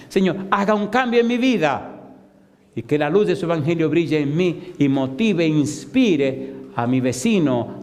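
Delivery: impassioned preacher exhorting the congregation; fervent preaching. Real, not acted. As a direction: press each phrase home with rising fervour. (predicación ferviente)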